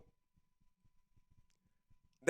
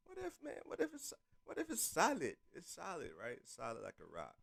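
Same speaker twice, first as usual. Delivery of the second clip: chewing gum; 3 semitones higher, 12 dB quieter than usual. Real, not acted. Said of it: "I had gum in my mouth".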